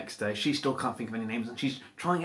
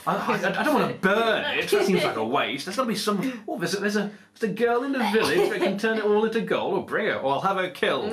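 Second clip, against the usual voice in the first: greedy king; 7 semitones higher than usual. Acted. Greedy king voiced, laughing.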